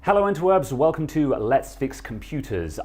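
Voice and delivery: high, bright-eyed YouTube host greeting; presenter intro voice. Pretend. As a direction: announce it like opening a show. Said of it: "That's a terrible intro".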